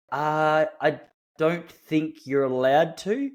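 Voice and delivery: haltingly, drawn out at the start; hesitant refusal. Retold or imitated. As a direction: imitate an awkward, polite refusal. Awkward guard refusing the land claim.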